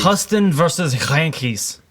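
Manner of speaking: slow, heavy German-like accent; German-sounding. Real, not acted. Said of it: "It sounded so German".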